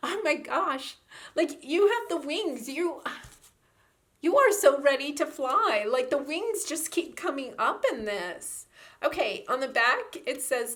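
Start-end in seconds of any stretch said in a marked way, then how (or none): 0.1-8.7 delighted excitement. Real, not acted. Delighted that wings keep coming up.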